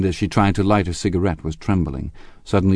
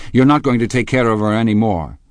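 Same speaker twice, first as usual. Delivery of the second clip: loud, raised insistence; touch of panic; 5 semitones higher, 6 dB louder than usual. A narrator's reading. Gatsby tells Tom he is losing her, slightly panicked. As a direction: press the point, slightly alarmed. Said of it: "said Gatsby with a touch of panic".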